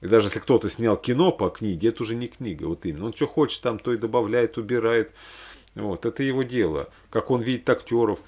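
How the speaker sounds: ordinary talk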